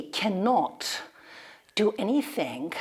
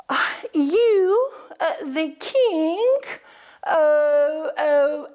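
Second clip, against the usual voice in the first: surprised doubt; 7 semitones higher, 4 dB louder, slower than usual. Acted. Animals doubt the tortoise.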